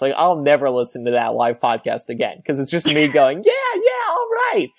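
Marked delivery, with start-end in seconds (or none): 3.4-4.7 very high, squeaky nervous voice. Retold or imitated. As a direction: squeak it out like a scared teen. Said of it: "how nervous I was".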